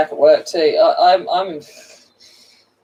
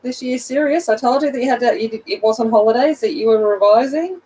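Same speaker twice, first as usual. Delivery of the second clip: mock stern teacher; 6 semitones higher than usual. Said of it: "And I went".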